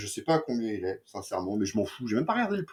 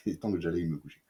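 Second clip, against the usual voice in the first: quick, soft, laughing retake; giggling through the line, rushed; 5 semitones lower, 6 dB quieter, faster than usual. Real, not acted. Tired reviewer laughing over his own fumbled line. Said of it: "Oh, ça va pas, putain".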